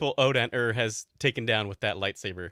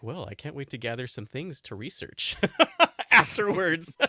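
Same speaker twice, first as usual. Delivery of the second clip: laughing bookworm. Retold or imitated. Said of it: "all he wanted to do was like".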